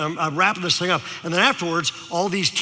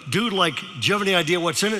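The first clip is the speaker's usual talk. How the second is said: quick mock Valley-dude question; Valley teenager; faster than usual. Speaker quizzes teen, quick mock Valley talk. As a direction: lightly imitate Valley lingo, quickly. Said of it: "decided to use his language".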